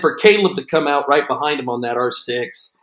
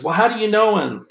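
high-pitched baffled question; retold bewilderment, mildly played; imitating freaking out; 7 semitones higher than usual. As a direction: imitate a puzzled caller, pitched up. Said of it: "he's just freaking out".

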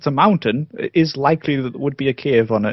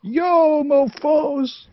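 high, put-on American greeting; bad American accent; 11 semitones higher, much slower than usual. Guest greets the show as he is introduced, bad American accent. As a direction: greet them in a badly faked American accent. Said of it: "that was your American accent".

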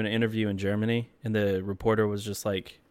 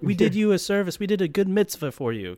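much higher, bright put-on voice; mock cheerful victims; 9 semitones higher than usual. Imagined roommates telling Josh, high and chipper. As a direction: cheerily insist while being stabbed. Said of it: "we're like".

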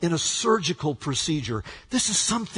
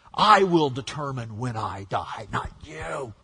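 defiant; 5 semitones lower, 4 dB quieter than usual. Acted. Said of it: "shaking his fist at God".

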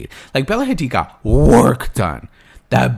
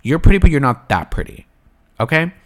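sassy put-down; 3 semitones higher, 6 dB louder than usual. Pretend. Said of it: "I'll say it".

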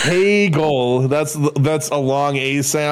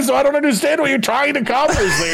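fast, laughing shout; laughing exasperation; 8 semitones higher than usual. Real, not acted. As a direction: blurt it out laughing. Laughing protest over pronunciation.

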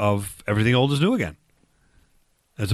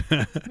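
short uneasy laugh, softly; nervous laugh; 5 semitones higher, 4 dB quieter than usual. Real, not acted. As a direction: laugh it off, a bit awkward. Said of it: "You got a nervous laugh that time".

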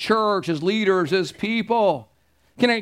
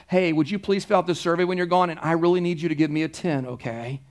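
pleading pastor mock; 5 semitones lower than usual. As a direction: beg politely for a top score. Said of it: "I'd be waiting at the door of the survey going".

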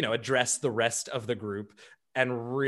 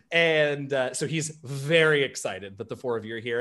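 ordinary talk

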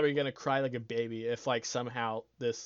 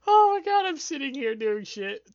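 laughing; 12 semitones higher, 9 dB louder than usual. Real, not acted. Laughing at himself alone.

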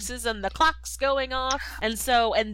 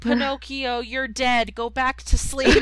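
high, loud mock-grieving father; hammed-up Geppetto telling the boy to sleep; Geppetto brushing him off; 4 semitones higher, 6 dB louder than usual. Geppetto shooing the living boy back to bed, hammed-up and loud. Geppetto voiced in retold scene.

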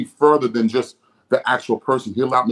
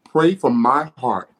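voice of God; slower than usual. Retold or imitated. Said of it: "This is the Lord speaking".

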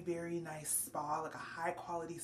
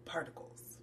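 mock ominous whisper; 4 semitones lower, 4 dB quieter than usual. Ominous punchline about particles.

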